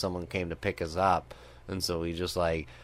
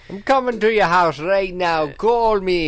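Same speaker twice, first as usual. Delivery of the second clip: mock scary caller; 11 semitones higher, 8 dB louder than usual. Mock hacker threat voice.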